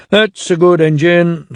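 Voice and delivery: kindly. Acted. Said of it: "said the Fat Controller kindly".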